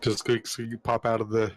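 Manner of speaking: ordinary delivery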